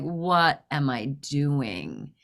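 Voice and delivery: slow, low, deliberate self-questioning; sobered realization. Retold or imitated. Driver realizing after ripping the wiper, sobered. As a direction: let it sink in word by word.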